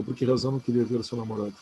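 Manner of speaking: quick demo of the reading that does not work; a quick, rushed demo of the wrong reading. Shown as a demonstration. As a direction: rattle off "por que razão não queria ver o seu namorado?" fast. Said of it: "eu não posso ler assim".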